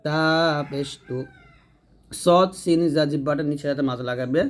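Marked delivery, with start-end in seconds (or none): 0.1-1.2 তা পেশ তু with light dental t; thin ta. Shown as a demonstration. Teacher drills the light twin, thin তা. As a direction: keep তা and তু thin. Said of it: "তা পাতলা হবে".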